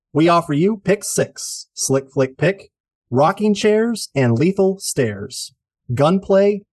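punchy announcer listing segments; show announcer. Acted. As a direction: announce each title with flair.

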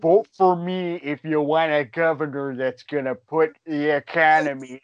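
Jesse Ventura impression. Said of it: "the Minnesota accent with the deep voice".

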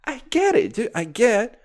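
high mocking voice, laughing; squeaky mock-friendly tone; hammed-up impression of himself; mocking quote. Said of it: "And I'm like".

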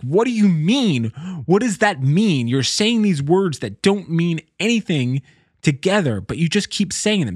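retold bewildered demand, pitch lifted; mildly exasperated replay of being freaked out. Dreamer questions the babbling zombie chasing him, freaked out. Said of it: "it was freaking me out".

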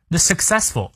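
successful with the stress on the middle syllable; teacher marking the stress in successful. Shown as a demonstration. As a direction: lean on the second syllable of successful. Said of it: "注意它的重音".

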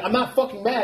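high-pitched exasperated mock denial; acted rising anger. Friend needled until he really is mad, acted exasperation. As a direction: blurt the denial up high, provoked. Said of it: "I can see you getting mad".

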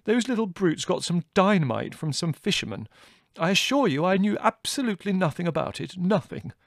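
high-pitched, agitated self-defence; mortified colonel protesting; tearful protest. A narrator's reading. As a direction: plead innocence, deeply upset. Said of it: "he said, tears in his eyes".

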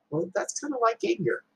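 easy, unbothered and gentle; calm reply. Retold or imitated. Buddha calmly refusing the angry man's insult. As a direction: let it go without heat, gently. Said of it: "Buddha calmly said back to him".

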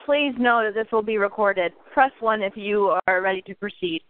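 recorded phone-menu voice; lightly imitating a robotic recording; automated voice. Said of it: "a automated voice came up and it was".

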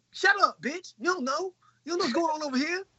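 mock telling-off. Telling off Sansa as Jon.

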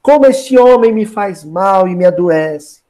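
slow, drawn-out mock suffering; milk the woe slowly, as a scheming mother would; craftily plaintive. Herodias manipulates her daughter against João Batista, hammed-up craftily plaintive. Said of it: "muito ardilosamente, falou".

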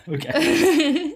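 high laughing okay. Real, not acted. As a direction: laugh out the word. Laughing reply.

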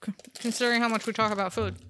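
talking while chewing candy; words around a chewy gummy; mouth full. Real, not acted. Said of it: "Sorry for the chewing again".

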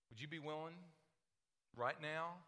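ordinary delivery

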